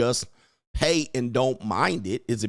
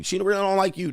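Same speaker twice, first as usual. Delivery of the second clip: higher-pitched mock warning; imitated nagging in a higher voice; mocking repeat; 7 semitones higher than usual. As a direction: pitch it up to mimic the naysayers.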